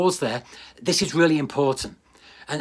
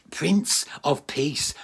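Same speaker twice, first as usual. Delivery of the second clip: slow reverent; much slower than usual. Acted. Repeats title, slow then whispered.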